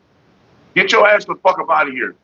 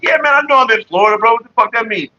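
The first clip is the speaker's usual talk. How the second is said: indignant retort; 5 semitones higher than usual. Retold or imitated. Retorting to the exterminator.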